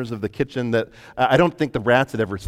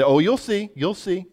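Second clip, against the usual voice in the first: teasing, ominous; 8 semitones higher than usual. Retold or imitated.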